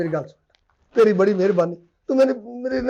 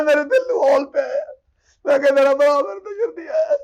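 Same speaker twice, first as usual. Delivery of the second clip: fake crying; 3 semitones higher than usual.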